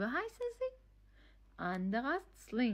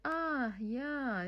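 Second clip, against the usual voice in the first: dawning realization; 5 semitones higher, much slower than usual. Acted. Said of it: "یعنی تازه ف- فهمید چی شده".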